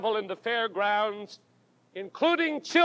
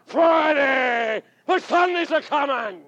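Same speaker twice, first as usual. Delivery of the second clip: preacher's shout; 2 semitones higher than usual. Retold or imitated.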